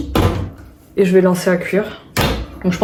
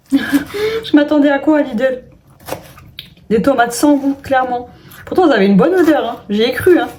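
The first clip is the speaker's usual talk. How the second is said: self-mocking; 5 semitones higher than usual. Real, not acted. Mocking her own naivety.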